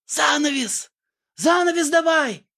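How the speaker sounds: high urgent calls; high frantic backstage shouting. Acted. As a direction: call for the curtain in a panic, high. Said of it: "суетились за сценой".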